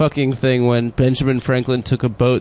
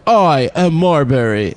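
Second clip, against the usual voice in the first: lightly hammed-up proclamation; mock proclamation; slower than usual. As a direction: declare it slowly like a proud chant. Imitating crowd in documentary.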